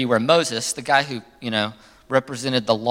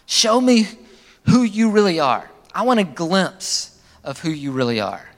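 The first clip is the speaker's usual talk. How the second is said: bold prayer; 3 semitones higher than usual. Shown as a demonstration. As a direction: ask boldly, with courage. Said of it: "had the courage to say".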